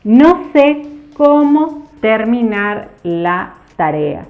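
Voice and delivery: slow example. Shown as a demonstration. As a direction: read the example slowly and clearly. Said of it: "como en estos ejemplos". (ejemplo leído despacio y claro)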